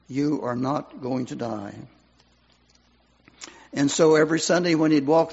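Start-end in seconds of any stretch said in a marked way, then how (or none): 0.1-1.7 soft, awed repeat of the promise; hushed echo. Retold or imitated. Preacher recalling the promise, hushed and softer. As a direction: say it softly, as if remembering. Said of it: "It was like a messenger from heaven".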